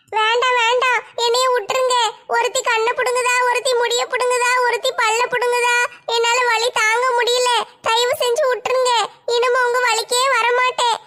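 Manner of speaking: tearful begging. Acted. Begging while tortured, crying.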